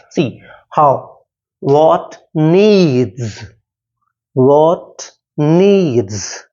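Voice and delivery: what short, NEEDS drawn out long; stress on needs. Shown as a demonstration. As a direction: say what quickly, then stretch needs. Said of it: "First syllable is not stressed".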